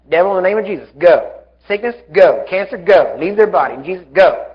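short, punched commands; firm command. Shown as a demonstration. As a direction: order it out firmly, landing hard on "go". Models commanding sickness to leave.

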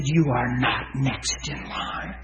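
slow, emphatic pronouncement; strong, firm prophecy. Retold or imitated. Minister prophesying over a fearful woman, slow and strong. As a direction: declare it slowly and firmly. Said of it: "I got real strong with it".

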